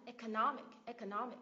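"Economic" with NOM stressed; weight on NOM, light "ic" in "Economic"; stress before last syllable. Shown as a demonstration. Teacher showing the IC rule on "Economic", stress on NOM. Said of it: "Mình nhấn âm tiết ngay trước đó này".

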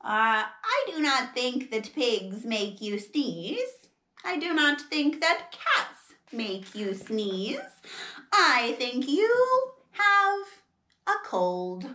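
slow, measured doctor's diagnosis; calm doctor cat. Acted. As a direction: deliver the diagnosis deliberately.

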